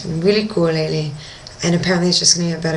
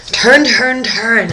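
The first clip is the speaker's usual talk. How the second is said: frantic, high, loud urging that eases off; freaking out; 4 semitones higher, 5 dB louder, much slower than usual. Retold or imitated. Diver begging companions to turn around, freaking out. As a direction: call out urgently, hardest on the first word. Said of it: "I'm freaking out".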